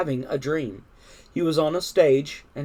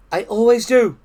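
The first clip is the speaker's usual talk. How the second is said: high, raised reply; Frog's voice; 7 semitones higher, 7 dB louder than usual. A narrator's reading. Frog replies to grateful Toad, high voice. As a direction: answer a friend in a high voice.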